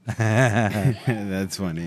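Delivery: slow fake laughing. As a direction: laugh it out, obviously faked. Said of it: "that was a fake laugh".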